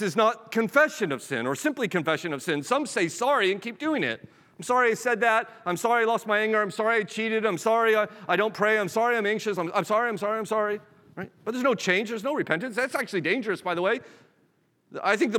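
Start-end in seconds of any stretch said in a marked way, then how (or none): 4.6-10.8 higher-pitched mock string of sorries; rote apologizing. Preacher mimicking those who say sorry and keep doing it, rote apologizing. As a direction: reel off empty apologies in a raised voice. Acting out empty repeated apologies.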